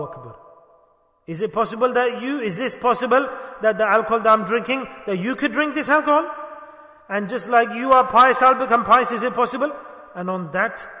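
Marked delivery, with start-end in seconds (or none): 1.3-9.7 louder and higher, eager and pleading; excited plea. Retold or imitated. The preacher voicing the drinker's hope to become pious, excited. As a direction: press the hope with rising energy.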